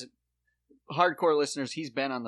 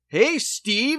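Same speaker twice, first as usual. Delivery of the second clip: loud, high-pitched hail to a buddy; excited calling out; 11 semitones higher, 9 dB louder than usual. Retold or imitated. Second guy at the ad's party, excited loud shout. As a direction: holler back like a cheesy ad actor. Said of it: "and then the guy goes".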